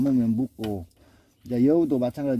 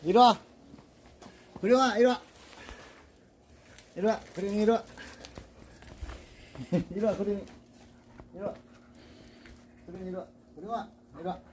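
coaxing pet voice; 6 semitones higher, 5 dB quieter, faster than usual. Real, not acted. Coaxing dog to come.

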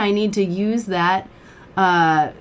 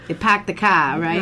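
tag Boston accent. Shown as a demonstration. Trying the stock Boston accent phrase.

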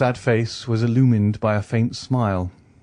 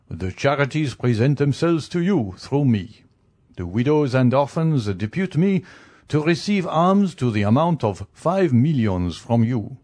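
higher, lilting official's voice; formal receiver general; 4 semitones higher than usual. Acted. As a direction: present the claim ceremoniously, pitch raised. Visitor presents the charities' claim.

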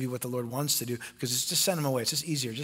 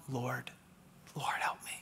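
breathless whisper, much softer; whispered plea; 3 semitones lower, 11 dB quieter than usual. Acted. Woman prostrate before Jesus, whispered plea.

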